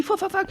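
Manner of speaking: soft, quick imitated flapping of a blown tire; tire noise imitation. Retelling the blowout to her cohost, a soft mock tire noise. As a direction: mutter it like the rhythmic thump of a tire. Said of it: "une autre très bonne imitation d'un bruit de pneu qui explose".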